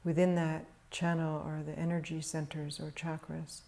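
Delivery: calm, measured meditation voice with long pauses; guided meditation. Real, not acted. Teacher guiding meditators to settle into stillness, calm meditation delivery. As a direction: guide them gently into stillness, leaving long silences.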